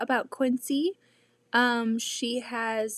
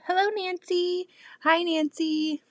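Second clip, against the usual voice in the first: bright greeting; 7 semitones higher, 4 dB louder than usual. Real, not acted. Greeting viewers by name.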